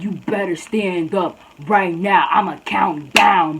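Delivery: slow, deliberate warning; mock threat. Tiny girl threatens to count down, slow mock warning. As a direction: imitate her spacing out a threat.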